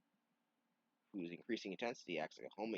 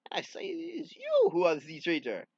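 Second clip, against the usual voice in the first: loud stage whisper; 10 semitones higher, 11 dB louder than usual. Acted. Antoine accuses the traitor in a hushed stage whisper.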